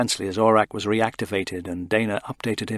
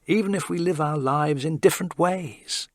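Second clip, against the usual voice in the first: trying for calm; 7 semitones higher than usual. A narrator's reading. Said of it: "Callie tried to speak calmly".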